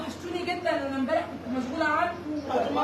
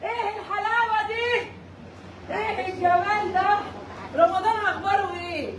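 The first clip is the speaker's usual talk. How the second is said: slow, higher, fond cooing with a laugh; cooing to pets; 4 semitones higher, slower than usual. Real, not acted. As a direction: gush over the animals lovingly. Cooing over her animals.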